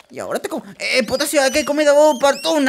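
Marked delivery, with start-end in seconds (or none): 0.1-0.6 much lower and softer, a hushed threat; sinister murmur; low, soft menacing. Acted. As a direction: growl it quietly as a monster about to eat. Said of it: "creature threatens to eat".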